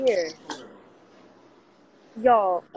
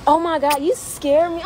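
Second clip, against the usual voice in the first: startled; 5 semitones higher, 6 dB louder than usual. Real, not acted. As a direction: jump scare gasp. Startled by cousin appearing.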